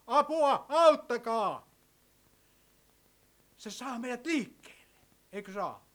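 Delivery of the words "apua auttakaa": high-pitched, restrained call for help; imagined cry for help. Pretend. Preacher imagines someone shouting for help, mock cry. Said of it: "jos kuuluisi huuto".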